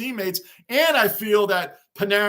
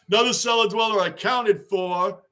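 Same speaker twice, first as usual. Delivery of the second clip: chuckling through the catchphrase; laughing. Real, not acted. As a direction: say it while still laughing. Repeats catchphrase while laughing.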